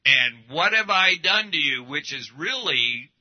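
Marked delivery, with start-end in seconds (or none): 0.0-1.8 loud, confrontational demand; in-your-face intense. Acted. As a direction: challenge them hard, voice raised. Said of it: "it's in your face, intense".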